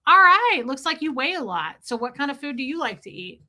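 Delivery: a hammed-up friendly doctor who starts bubbly. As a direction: gush like a chummy doctor bestie. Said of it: "be like".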